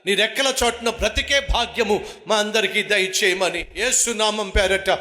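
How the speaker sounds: earnest prayer voice over music; closing prayer. Acted. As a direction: pray to the Father, humbly and steadily.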